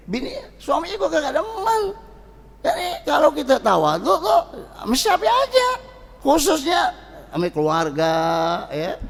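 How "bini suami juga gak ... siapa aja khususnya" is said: laughing. Real, not acted. Laughing while preaching.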